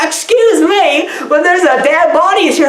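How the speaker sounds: high-pitched, hammed-up officer's announcement; police officer. Police officer reporting a dead body, hammed-up interruption. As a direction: draw out a mock-indignant interruption. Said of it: "police officer come there and they're like".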